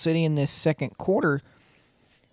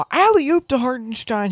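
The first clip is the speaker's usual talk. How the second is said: high, loud alley-oop call; excited call; 7 semitones higher, 7 dB louder, slower than usual. Real, not acted. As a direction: shout the alley-oop as it happens.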